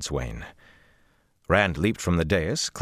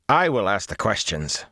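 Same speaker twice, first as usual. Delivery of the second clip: firmly; 3 semitones higher than usual. Acted. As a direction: put your foot down. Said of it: "Rand said firmly".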